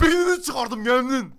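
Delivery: loud, slow, drawn-out boast; gloating shout. Pretend. Gamer boasts to teammate about a kill, shouting. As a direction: stretch the boast out at volume.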